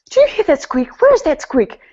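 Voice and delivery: the same fuss, now ramped up and insistent; hammed-up husband hunting a squeak; tense, fretting husband. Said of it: "he'd be sitting there so tense".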